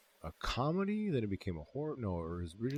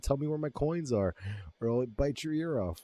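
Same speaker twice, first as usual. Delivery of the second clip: higher-pitched, chipper imitation of a threat; 6 semitones higher than usual. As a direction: deliver the threat lightly and cheerily. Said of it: "with such a chipperness in his fucking voice".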